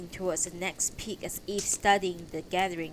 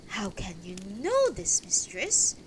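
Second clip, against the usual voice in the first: mildly urgent demand; demanding, consternated. Acted. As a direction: press for an answer, a touch of alarm. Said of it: "I demanded".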